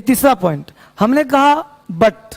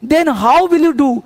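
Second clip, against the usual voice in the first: slow drill; much slower than usual. Shown as a demonstration. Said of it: "फिर से बोलो मेरे साथ".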